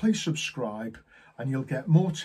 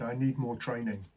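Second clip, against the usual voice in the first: imitated glum trainee, a little subdued; mildly downcast, as if retelling his plea; sorrowful; 3 semitones lower, 4 dB quieter than usual. New agent asking manager for training, sorrowful. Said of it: "looked at me all sorrowfully and said".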